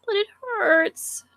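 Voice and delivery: put-on high, whiny cute girl. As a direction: pout playfully like a sweet schoolgirl. Sayori's voice.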